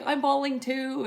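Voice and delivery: imitating niece, high, loud and slow; overwhelmed excitement. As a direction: draw it out loudly, overcome. Niece's retold emotional reply.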